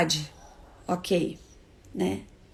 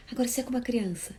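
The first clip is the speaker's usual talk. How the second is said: ordinary talk, nothing marked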